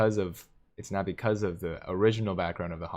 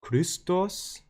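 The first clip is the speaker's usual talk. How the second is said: high, questioning stab at a German accent; attempted German accent; 11 semitones higher than usual. Shown as a demonstration. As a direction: try the name in a German accent, unsure. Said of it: "how do I say a German accent".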